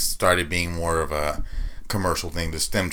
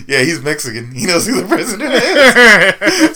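high, loud, slow punchline through laughter; laughing joke; 11 semitones higher, 8 dB louder, slower than usual. Retold or imitated. Joking to a nurse about his Mexican dad, laughing. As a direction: land the joke while cracking up. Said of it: "I made a joke".

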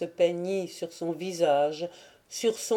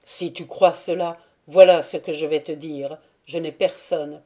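ferme et plus fort, plus grave; il tranche sans appel; obstiné; 3 semitones lower, 6 dB louder than usual. Acted. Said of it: "répéta-t-il obstinément". (ton obstiné et ferme, plus fort)

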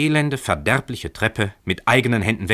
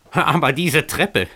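higher, slow, pressed out in anger; grinding anger; 7 semitones higher, 3 dB louder, slower than usual. A narrator's reading. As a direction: force it through the teeth at the tenant. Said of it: "knirschte Emmerich".

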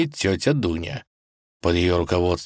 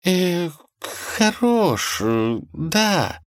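slow, hesitant, much higher; unsure answer; 11 semitones higher, much slower than usual. Acted. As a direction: hedge reluctantly. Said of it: "неуверенно ответила Василиса".

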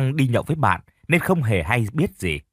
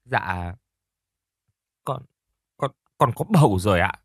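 crying. A narrator's reading. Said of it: "Ly vừa nói vừa khóc".

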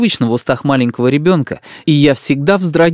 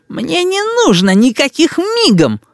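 put-on slow, higher sulky child; stubborn boy. A narrator's reading. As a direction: dig in like a spoiled kid. Boy refuses. (упрямый мальчишка)

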